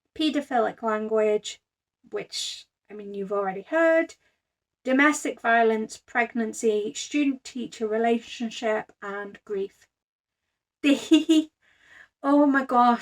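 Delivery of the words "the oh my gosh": slow start trailing into drawn-out giggles. Opening their notes on a book they enjoyed, giggling. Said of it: "I'm giggling".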